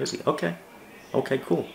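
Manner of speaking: high, airy "okay, cool", brushing it off; dismissive sarcasm. Real, not acted. Vlogger dismissing critics' emails, sarcastic and high.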